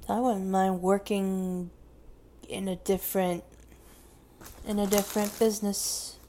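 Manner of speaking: chewing while talking; mouth full. Real, not acted. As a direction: talk around a mouthful of chips. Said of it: "I'm chewing on this Cheeto".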